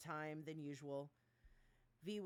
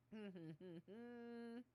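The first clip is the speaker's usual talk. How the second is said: nervous laugh; 5 semitones higher, 6 dB quieter than usual. Real, not acted. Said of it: "I'm laughing nervously".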